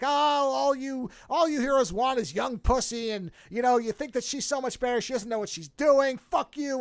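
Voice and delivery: hammed-up furious outburst; an older woman scorned, ranting at the hero. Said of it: "she's just going on this rant".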